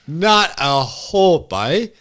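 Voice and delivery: put-on slow, drawn-out Cork accent; hammed-up Cork brogue. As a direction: lay on a thick mock Cork accent, slowly. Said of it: "better than your Cork accent".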